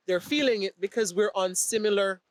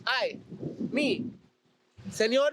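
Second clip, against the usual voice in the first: put-on joking Spanish accent. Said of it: "when I do the accents".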